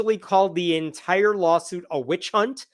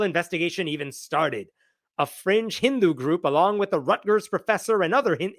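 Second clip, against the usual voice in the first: put-on Indian accent; 2 semitones higher than usual. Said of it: "this is my Indian accent".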